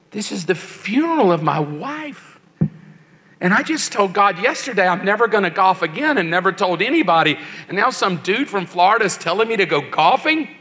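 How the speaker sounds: retold disbelief, quick with swooping pitch; incredulous. Widower questioning a stranger's advice at the funeral, incredulous. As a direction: re-enact indignant bafflement.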